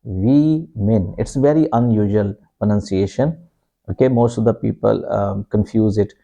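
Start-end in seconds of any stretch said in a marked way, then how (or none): 0.0-1.1 "we men" as WIM-in, broken slowly in two; slow split syllables "we men" for women; short I. Shown as a demonstration. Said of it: "short I sound".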